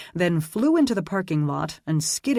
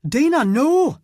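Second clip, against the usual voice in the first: alarmed shout, far higher and louder; calling out; 11 semitones higher, 8 dB louder than usual. A narrator's reading. Aidan stopping Dana firing the taser, alarmed shout. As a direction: yell to stop her shooting. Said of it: "he called".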